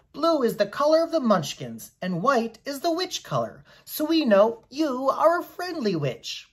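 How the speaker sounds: a little man sure he's met a good witch; Boq, admiring Munchkin. Acted. Boq explains colours.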